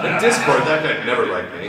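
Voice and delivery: high, loud, eager listing; chattering Rainbow Dash. Acted. Rainbow Dash listing everyone against her, excited chatter. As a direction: rattle off rivals in high character voice.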